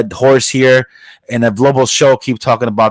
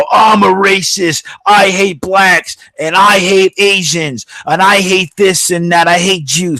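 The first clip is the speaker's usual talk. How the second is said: mocking a loudmouth racist, raised and drawn out; mock racist guy; 7 semitones higher than usual. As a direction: play a cartoonish racist ranting. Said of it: "a man who would go".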